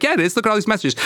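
high, gotcha triumph; triumphant. Retold or imitated. Retelling showing the boyfriend his messages, high triumphant gotcha. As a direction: pounce on the proof. Retold catching him with messages.

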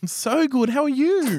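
put-on gay voice. Man flirting with a guy at a bar, put-on gay voice. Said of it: "Can I, can I do a gay voice or no?".

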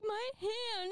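high-pitched mock distress; retold alarm without a full scream; imitated screaming. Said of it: "He kept screaming".

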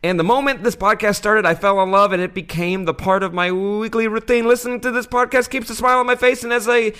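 high, loud, wandering mock Australian accent. Shown as a demonstration. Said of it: "that was actually his Australian accent the whole way through".

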